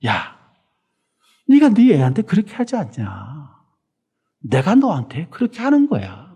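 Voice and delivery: tender loving voice of God comforting a believer; soft, loving voice. Retold or imitated. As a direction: reassure a stumbling child tenderly. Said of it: "아주 부드럽고 사랑스러운 목소리로".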